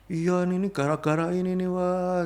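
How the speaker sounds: menirukan orang mengeluh. Retold or imitated. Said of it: "orang cenderungnya cuman gini". (pura-pura mengomel, nada tinggi)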